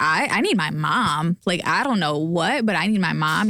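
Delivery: ordinary delivery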